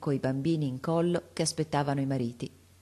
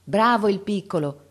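lode calda; 4 semitones higher, 5 dB louder than usual. A narrator's reading. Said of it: "dicevano intorno".

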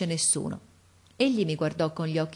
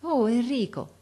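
esclamazione affettuosa, più acuta; voce affettuosa; 7 semitones higher than usual. A narrator's reading. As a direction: chiama Enrico con tenerezza, più in alto. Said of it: "con la sua voce affettuosa". (il maestro malato saluta Enrico con affetto)

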